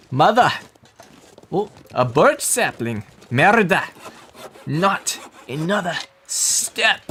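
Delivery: hammed-up bad Scottish accent; mock Scottish, overdone; horrible Scottish accent. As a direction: put on a terrible Scottish brogue. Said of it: "With my horrible Scottish accent".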